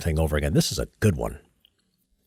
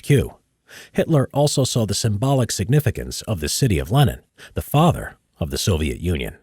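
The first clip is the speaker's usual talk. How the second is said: measured history narrator read; documentary narration; 3 dB louder than usual. Acted. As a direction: read it like a war documentary voice-over.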